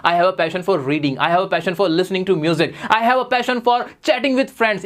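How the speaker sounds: stretched very slowly, each word apart; slow model phrase. Shown as a demonstration. Teacher modelling a new phrase for students, very slow. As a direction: draw the phrase out for the class. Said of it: "मेरे को जुनून है".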